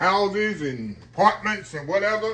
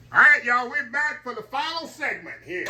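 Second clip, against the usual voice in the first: excited greeting; 9 semitones higher, 4 dB louder than usual. Real, not acted. Cheerful return greeting to camera.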